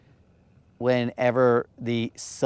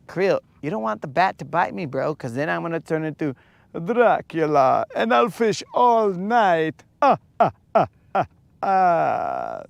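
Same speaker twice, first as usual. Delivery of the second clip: bat-bitten vampire voice. Acted. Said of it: "how I got this voice all of a sudden".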